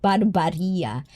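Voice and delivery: "Barbaria" with an open "bar" in the middle, bar-BAR-ia; accented Barbaria. Shown as a demonstration. Host trying out a viewer's name, accented "Barbaria" with broad ah vowels. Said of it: "I'm gonna do that accent".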